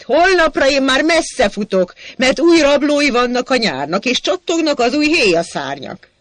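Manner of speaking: high, loud declaiming shout. Acted. Sajó shouting Ady's lines at Hacsek, high and loud. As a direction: proclaim the lines at full voice. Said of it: "Sajó ordít".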